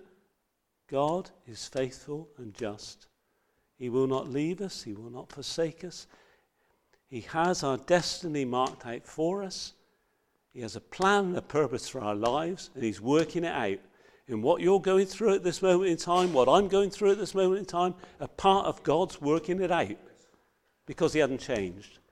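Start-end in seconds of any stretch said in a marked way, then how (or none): 14.3-20.0 excitement building up, getting higher. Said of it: "Sorry, I'm getting excited about this".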